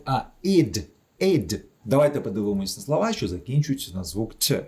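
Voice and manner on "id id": "id" as a short I plus voiced D; ending read as "id". Shown as a demonstration. Teacher corrects the misreadings, clear voiced "id". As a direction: give "id" a clear short vowel and released D. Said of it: "починає читатися як".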